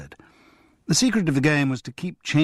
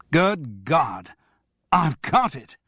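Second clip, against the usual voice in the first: sudden realisation shout; 4 semitones higher, much slower than usual. Acted. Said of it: "he shouted".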